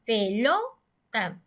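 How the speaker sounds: pelota broken up, "lo" stretched and rising, then "ta"; stress on second-to-last syllable. Shown as a demonstration. Teacher demonstrating the stressed syllable of pelota, "lo" held long and rising. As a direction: draw out and lift the "lo" in pelota.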